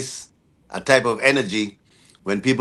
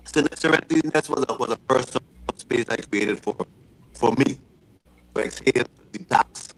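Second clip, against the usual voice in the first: underwater; 4 dB quieter than usual. Real, not acted. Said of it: "You're underwater".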